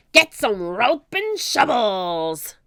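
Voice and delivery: loud, slow pirate order; roar. Acted. Captain roars at his men, loud. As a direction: bark the command. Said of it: "he roared at his men".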